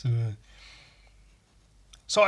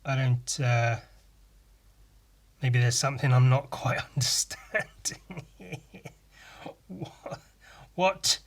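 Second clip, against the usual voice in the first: baffled. Retold or imitated. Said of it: "I was just baffled".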